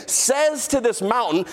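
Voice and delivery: "says to this mountain" stretched out slowly, leaning on "to"; slow emphatic repetition. Shown as a demonstration. Preacher drills the verse into the congregation, slow and emphatic. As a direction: drag out "says to this mountain" for weight. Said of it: "I'll say it again".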